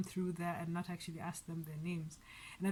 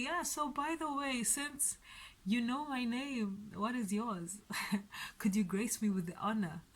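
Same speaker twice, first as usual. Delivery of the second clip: rehearsed breezy opener, starting high; mock casual; 3 semitones higher than usual. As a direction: casually slide in a playful request, pitch easing down. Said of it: "casually walk up and say".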